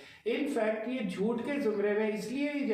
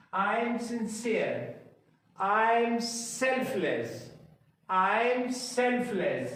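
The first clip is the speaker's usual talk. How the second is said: very slow, each word laid out for repeating; slow drill model; much slower than usual. Shown as a demonstration. Teacher models each sentence slowly for class to repeat. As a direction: spell it out slowly so students can copy. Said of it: "एक एक sentence को उसके साथ साथ दोहराइए".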